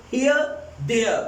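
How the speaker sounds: "here" and "there" end in an open aa with no r; r becomes aa. Shown as a demonstration. Teacher isolates the words for students. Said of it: "ऐसे लग रहा है जैसे आप आ का sound".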